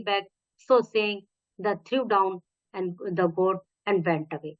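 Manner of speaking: slow, careful read-aloud for pupils; story reading. A narrator's reading. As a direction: read it to the class, word by word. Teacher reads English story aloud. (धीमे स्वर में कहानी पढ़ना)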